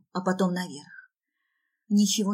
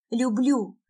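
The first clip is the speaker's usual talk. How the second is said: higher, desperate cry; pleading raised-pitch outburst; shouted; 4 semitones higher than usual. Acted. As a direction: call it out defiantly. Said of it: "кричу".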